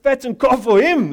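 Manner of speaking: indignant brother yelling; angry outburst. Acted. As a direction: throw it at the father. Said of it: "exclamation mark".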